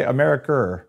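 attempted Australian accent. Shown as a demonstration. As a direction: try one word in an Australian accent. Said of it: "the only thing I, I can say".

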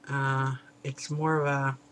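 talking around mouthpiece; vape pen in mouth. Real, not acted. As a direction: lips closed on pen. Seen 2: Vape mouthpiece held between lips throughout the labelled words.

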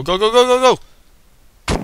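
high, loud, slow go go go; excited urging. Real, not acted. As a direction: drag out each go cheering. Urging himself on.

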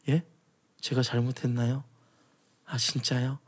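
soft, sarcastic mock meekness; hushed, sneering apology.

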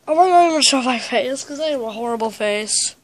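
talking with a blocked nose; congested, stuffed-up voice; stuffy nose. Real, not acted. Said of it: "sorry if I sound so funny".

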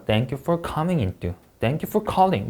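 slow "thank you for coming into" read as one chunk; grouped phrase. Shown as a demonstration. Teacher modeling phrase grouping for greetings. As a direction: keep "thank you for calling" together, unhurried. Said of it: "묶어 읽어주셔야".

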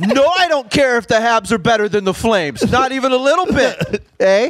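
playful Canadian hockey-fan denial; badly hidden Canadian. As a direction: deny it too firmly in a Canadian accent. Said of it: "A Canadian who is not good at hiding".

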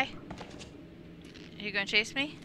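whispering. Real, not acted. Sneaking past game enemy.

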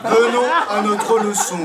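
macho. Shown as a demonstration. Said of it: "essayez un peu, en macho".

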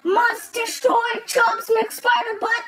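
slow chanted robot command. Acted. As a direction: chant it like a machine.

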